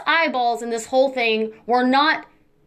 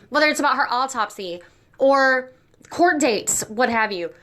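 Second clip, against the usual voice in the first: brushing teeth while talking. Real, not acted. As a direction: mouth full of toothpaste foam. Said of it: "I'm brushing my teeth".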